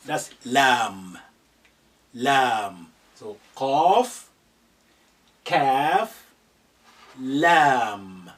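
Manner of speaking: lam and kaf said loud and clear; letter name demo. Shown as a demonstration. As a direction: announce each letter name for copying. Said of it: "teaching letter names".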